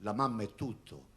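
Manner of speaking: slow, tender poem reading; poetry recitation. Acted.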